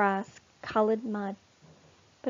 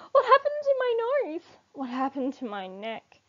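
much higher, fast, frantic squeal; panicked warthog; 7 semitones higher, 3 dB louder than usual. A narrator's reading. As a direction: panic over the strange new body. Warthogs in a terrible state.

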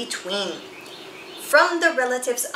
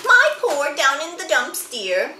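a lightly voiced, higher, fond wife; tender wife voice; 4 semitones higher than usual. Wife comforts her gloomy husband, in a lightly higher tender voice. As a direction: coax him out of the blues, higher.

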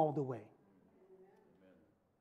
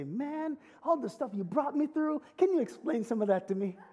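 eager to Jesus; 6 semitones higher than usual. Pretend. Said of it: "I just wanna hug my Savior and say".

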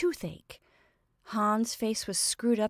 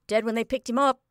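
with relish; 4 semitones higher, 5 dB louder, faster than usual. A narrator's reading. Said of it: "said Godber's man with relish".

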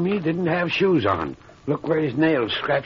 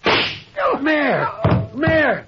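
horrified cry; 8 semitones higher, much slower than usual. Acted. Doctor crying out when the mayor is shot. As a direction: cry out as your friend falls.

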